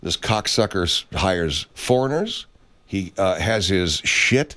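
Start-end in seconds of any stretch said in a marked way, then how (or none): 3.4-4.6 "shit" drawn out slowly for emphasis; stress on shit. Real, not acted. Ranter attacking foreign-made goods, stress on "shit". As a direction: underline the word "shit" by stretching it. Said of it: "I underline the word shit".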